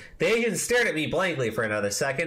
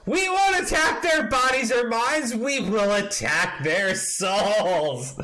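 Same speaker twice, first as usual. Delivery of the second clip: mock rally cry; 5 semitones higher, 3 dB louder, slower than usual. Reading a rant in mock fervor.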